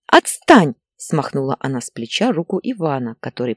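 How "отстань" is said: short, mildly raised rebuff; irritated brush-off. Acted. Wife to husband trying to calm her, irritated. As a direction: shake him off irritably.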